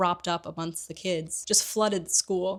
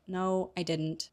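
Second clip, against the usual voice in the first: tearful; 5 dB quieter, slower than usual. Retold or imitated. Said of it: "tears start to roll".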